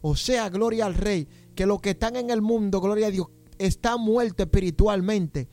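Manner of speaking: urgent exhortation to the congregation; fervent preaching. Real, not acted. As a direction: preach with force, punctuating phrases with praise. Preaches at full force to congregation.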